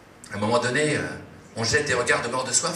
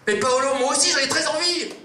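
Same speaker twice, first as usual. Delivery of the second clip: put-on much higher, louder girlish gush; high gushing woman's voice; Daisy's eager reply; 12 semitones higher, 4 dB louder than usual. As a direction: squeal it back, thrilled.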